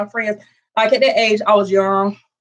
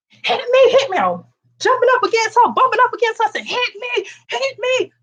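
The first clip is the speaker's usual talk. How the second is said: pitched-up goading, hit me; high taunting dare; 12 semitones higher than usual. Retold or imitated. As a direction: egg her on to swing first, high and eager. Taunting girl to hit first.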